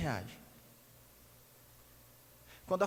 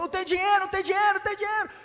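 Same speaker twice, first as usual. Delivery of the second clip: very high, loud chant; mock shouting father; 10 semitones higher, 7 dB louder, much faster than usual. Father shouting back in a mock tantrum, high loud chant. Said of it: "E o outro".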